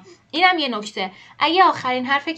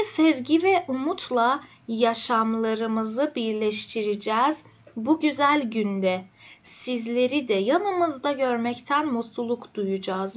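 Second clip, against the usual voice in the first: slow careful reading; much slower than usual. Shown as a demonstration. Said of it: "reading invitation text slowly".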